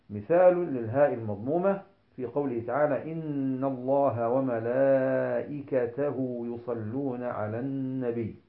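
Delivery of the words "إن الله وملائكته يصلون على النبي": slow, measured tajweed chant; even, drawn-out chanting; Quran recitation. Shown as a demonstration. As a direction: recite the verse with long held vowels.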